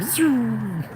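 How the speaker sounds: high-pitched "zoom" falling away; drawn-out vrooming zoom; zooming bike noise. Retold or imitated. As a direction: imitate a fast bike whizzing past. Imitates a speeding bike passing.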